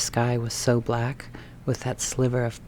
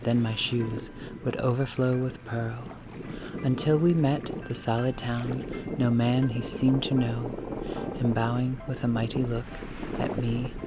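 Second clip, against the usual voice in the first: poem reading. Acted. Reads a Dickinson poem.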